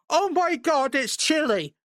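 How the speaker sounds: high-pitched, excited mock shout; imitated shouting out. Someone recognizing a podcast friend at fan fest, mock shouting out. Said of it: "someone shouted out".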